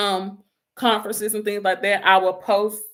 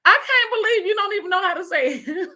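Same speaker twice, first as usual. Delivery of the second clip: higher, faster, laughing as the gamer nephew; laughing nephew impression; 10 semitones higher, faster than usual. Aunt imitates gamer nephew teasing her, laughing. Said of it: "he would be like".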